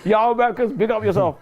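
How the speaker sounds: put-on half-hearted American accent, copying his co-host; copied American accent. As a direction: echo the shout out in a weak American accent. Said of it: "I'll follow after you".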